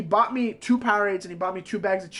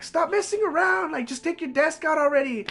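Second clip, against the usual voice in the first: higher, nagging teacher voice; mock annoyed teacher; 8 semitones higher than usual. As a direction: imitate the impatient teacher.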